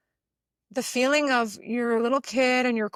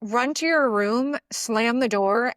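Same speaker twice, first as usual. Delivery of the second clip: inner saboteur; 4 dB louder than usual. Acted. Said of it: "My inner saboteur would tell me".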